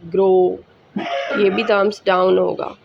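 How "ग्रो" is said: ग्रो with a plain long o; o sound demo. Shown as a demonstration. Teacher contrasts ग्रो with the aao sound. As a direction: say ग्रो on a steady o. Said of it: "अब यहाँ पे ओ की sound है".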